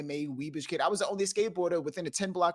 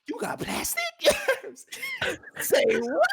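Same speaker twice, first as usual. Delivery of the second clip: incredulous; 4 dB louder than usual. Retold or imitated. Incredulous about her card.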